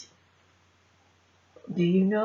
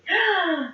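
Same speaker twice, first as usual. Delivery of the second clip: gasp; 4 semitones higher than usual. Acted. Monkey gasps before answering.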